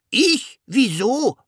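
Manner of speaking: very high, baffled dragon question; little dragon asking. A narrator's reading. Dragon hearing itself given a name, high baffled question. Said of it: "fragte der Drache".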